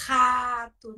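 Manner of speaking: rato with the r scraped in the throat, hhato; throaty R. Shown as a demonstration. Teacher demonstrating the R that scratches the throat. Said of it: "R que arranha na garganta".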